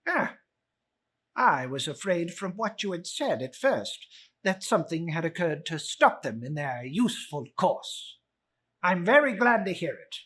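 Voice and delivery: mock-relieved miser; sarcastic Scrooge. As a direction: sneer it as false relief.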